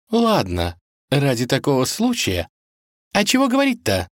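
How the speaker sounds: matter-of-fact cook; businesslike. Acted. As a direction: get down to work. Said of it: "деловито уточнила она".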